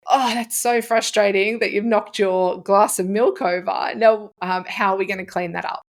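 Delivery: even, supportive parent voice; calm and understanding. Shown as a demonstration. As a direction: stay steady and kind despite the spill. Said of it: "you can feel it's a lot more calm then".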